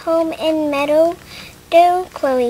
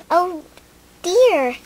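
a lightly raised, startled oh dear; startled exclaim; 5 semitones higher than usual. A narrator's reading. Lily bumping into Chloe, a touch of alarm. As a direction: sound mildly startled, not alarmed. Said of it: "exclaimed Lily".

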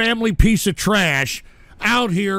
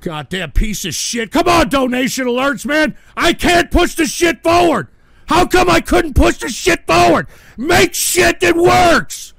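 high, loud frustrated yelling; real outburst, pitched way up; angry shouting; 8 semitones higher, 7 dB louder than usual. Real, not acted. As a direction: yell in exasperation at broken equipment. Raging at glitching donation alerts.

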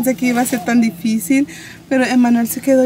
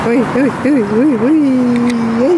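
excited uy uy; 5 dB louder than usual. Real, not acted. Excited at tacos.

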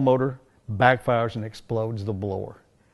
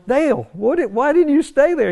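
high, disbelieving demand; incredulous; 13 semitones higher, 3 dB louder than usual. Retold or imitated. Asking Dale why he left for lunch, incredulous. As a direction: push him for an answer, pitch climbing. Confronting Dale after the blast.

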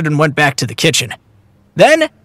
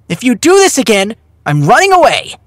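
higher-pitched, cross ultimatum; angry; 4 semitones higher than usual. A narrator's reading. Daughter threatens her father with leaving, angrily. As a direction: threaten Dad in a temper. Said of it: "Cherry said angrily".

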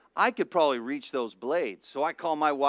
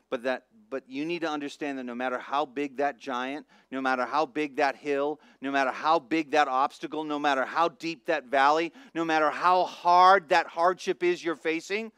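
rising, louder preaching climax; preaching build; 4 dB louder than usual. Acted. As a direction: build the crowd up line by line.

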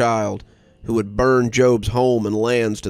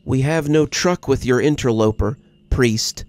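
cherubic steady voice; 3 semitones higher than usual. Acted. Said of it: "his cherubic voice sounding steady".

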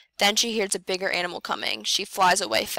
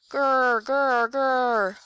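playful growl; 4 semitones higher, much slower than usual. A narrator's reading. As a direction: growl like a storybook bear, not scary. Bear growl sound.

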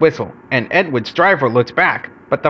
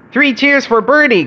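high, raised celebratory call; called cheer; 10 semitones higher, 4 dB louder than usual. A narrator's reading. Passengers applaud Bertie at the end, cheering. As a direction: lead three cheers. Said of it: "called the passengers".

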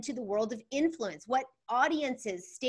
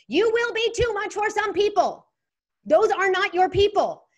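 louder and higher, declaring it with full conviction; emphatic; 9 semitones higher, 7 dB louder than usual. Acted. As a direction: proclaim it like a rallying cry. Repeating the meme with force.

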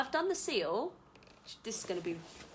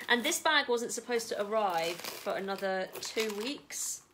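ordinary talk, nothing marked

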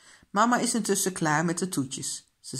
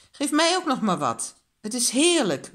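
raised, delighted voice over dinner; enthusiastic call; 6 semitones higher, 5 dB louder than usual. A narrator's reading. Papa asks for another helping, enthusiastic call. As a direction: call out with delight, higher pitched. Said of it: "roept papa".

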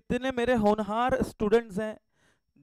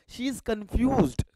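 drawled aside; 3 semitones higher, much slower than usual. Acted.

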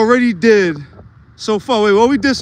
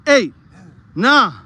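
counting reps; 2 semitones higher than usual. Real, not acted. Counting push-up reps aloud.

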